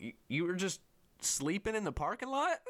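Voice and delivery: high, disbelieving question, rising at the end; imitated incredulous friend.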